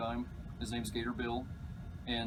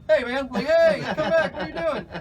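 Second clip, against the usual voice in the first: loud high yell after someone leaving; high-pitched, urgent holler; calling out; 14 semitones higher, 12 dB louder than usual. Retold or imitated. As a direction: shout to flag down a passing driver. Calling after truck passing him.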